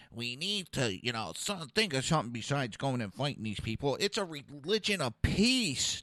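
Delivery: lightly mocked mild-mannered peacemaker; soft, hesitant plea for understanding, mildly imitated; Obama. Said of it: "Or you have Obama".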